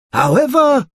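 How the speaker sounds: put-on a fussy old wizard delivering judgement. A narrator's reading. Wizard voicing judgement on Mister Stingy.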